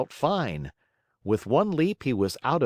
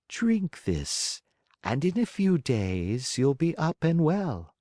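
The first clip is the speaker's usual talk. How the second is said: loving; 6 semitones higher, slower than usual. A narrator's reading. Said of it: "said lovingly to him".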